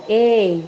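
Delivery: "ei" with an open é; demonstrated open-mouthed "ei"; open sound. Shown as a demonstration. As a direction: show "ei" as an open vowel gliding to i. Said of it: "é a-, um som aberto".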